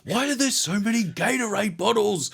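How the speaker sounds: imitating a friend in a high voice; high-pitched mimicry. Repeating a friend's line in a high mimicking voice.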